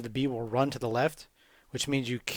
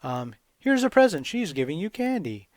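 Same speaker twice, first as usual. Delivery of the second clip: a higher, louder, pushy messenger voice; eager messenger; 4 semitones higher, 6 dB louder than usual. Acted. Messenger inviting Nemo to Slumberland, high and eager. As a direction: sell the invitation loudly, like a herald. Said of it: "a messenger comes to Nemo and says".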